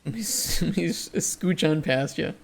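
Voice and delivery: slow northern Minnesotan accent; Fargo-style Minnesotan lilt, drawn out. Shown as a demonstration. Streamer imitating a Minnesotan squeezing by, thick Midwestern accent.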